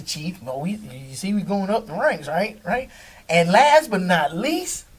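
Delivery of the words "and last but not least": hyped stadium intro, drawn out; booming announcer build-up to the name; arena announcer. Shown as a demonstration. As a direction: announce him like a ring announcer. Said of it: "I just wanted to do that".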